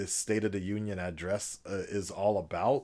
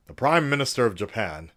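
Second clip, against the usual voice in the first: loud, grand statesman delivery; mock presidential address; 3 semitones higher, 6 dB louder than usual. Vlogger parodying a national address, grand and declaiming. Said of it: "I don't know why I keep doing this accent".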